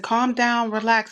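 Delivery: lightly acted attempt to placate; calming. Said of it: "I was telling him to calm down".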